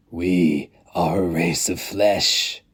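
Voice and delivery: slow, weighty declaration; slow elder's creed; solemn creed. Acted. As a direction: proclaim it as their creed.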